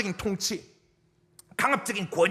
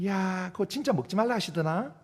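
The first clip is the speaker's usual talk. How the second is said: sly tempter. Retold or imitated. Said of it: "살살살살 꼬시는 거예요".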